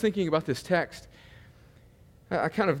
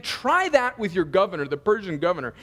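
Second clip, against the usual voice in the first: sarcastic God. Retold or imitated. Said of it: "He's being sarcastic".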